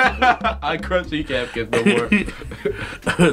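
laughing through words. Real, not acted. Mock fight, laughing through.

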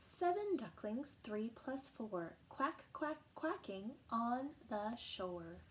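sing-song nursery rhyme read aloud; bouncy counting rhyme with a playful quack; reading a rhyme to children. Acted. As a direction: lilt it for little kids like a picture book. Reads counting rhyme to kids.

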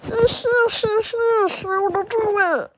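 high eager yes yes; excited. Real, not acted. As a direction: bounce with eagerness. Excited agreeing.

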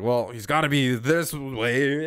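slow, drawn-out imitation of a clueless enemy; mock confident guess. Gamer imitating a clueless enemy checking the wrong way, drawn out. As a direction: stretch it out, mimicking someone sure of himself.

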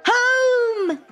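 high, loud shout of "Home!"; urgent loud cry to gallop home. Acted. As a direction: yell it to urge the mule off.

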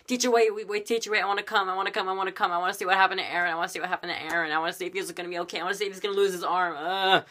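put-on high, rushed whiny child voice; clamouring kids. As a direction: imitate kids begging to tag along. Voices pestering kids following along.

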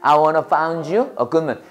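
very slow, each word spaced out; slow model sentence. Shown as a demonstration. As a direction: say it slowly for the class to repeat. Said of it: "해봐".

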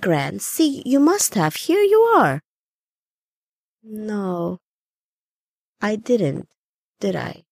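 put-on rising, urgent old woman's voice; grandmother growing distressed. Grandmother denies lying in the grass, growing alarmed. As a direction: grandmother fighting the truth, building to panic. Gran realizing her death.

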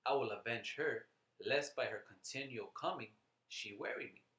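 emphatic verse reading with punched key words; scripture reading. Acted. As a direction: declaim the scripture firmly, phrase by phrase. Reads scripture aloud to listeners.

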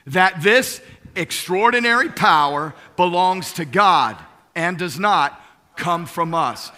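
"this extraordinary power" stressed, slowing on "does not come from us"; emphatic scripture reading. Shown as a demonstration. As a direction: lean hard on "this extraordinary power" and "God". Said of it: "I'm emphasizing different words here".

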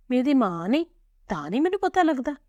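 high, plaintive daughter's lament; fretful grieving. A narrator's reading. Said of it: "ਕੁੜੀ ਅੰਦਰ ਗਤੀ ਝੁਰਨ ਲੱਗੀ". (ਝੂਰਦੀ ਧੀ ਦੀ ਉੱਚੀ ਸੁਰ)

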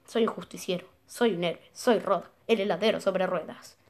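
declaimed, theatrical reading; scheming villain's diary. Acted. Gamer reads ice-cream seller's murder plan, declaimed. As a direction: lay out the evil plan with relish. Reads Rod's note aloud.

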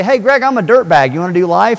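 cheeky loud pitch from a creep; mock dirtbag pitch. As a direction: play the slimy stranger selling himself.

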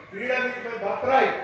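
very slow, each word spelled out; slow solemn slogan; slow proclamation. Shown as a demonstration. Quoting famous freedom slogan.

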